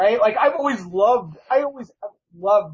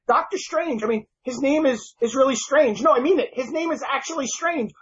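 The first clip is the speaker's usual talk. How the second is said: higher-pitched, lightly voiced indignant villain; exasperated villain rant; 6 semitones higher than usual. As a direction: play a fed-up minor villain complaining, pitched up. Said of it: "He's like".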